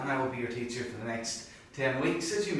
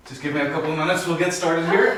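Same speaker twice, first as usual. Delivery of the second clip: calling out; 4 semitones higher, 11 dB louder than usual. Acted. Teacher calling class to order.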